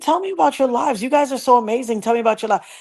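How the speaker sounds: re-enacted eager questioning, pitched high; high, enthusiastic retold request. Retelling her eager questions to the ladies.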